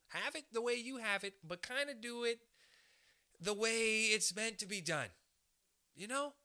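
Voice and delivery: imitating an overly nice boss, rising toward the end; soft-touch manager. Comic imitating a modern manager giving feedback, soft coaxing. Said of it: "people will come up to you and they'll say".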